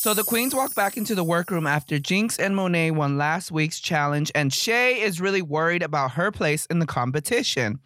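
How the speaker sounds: TV show recap read; host narration. Acted. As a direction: present it like a reality host. Reads show recap to camera.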